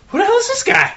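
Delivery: very high-pitched mock astonishment; high, incredulous retold outburst; astonished reaction. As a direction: squeal it in disbelief, hamming it up. Astonished reaction on hearing actor's voice.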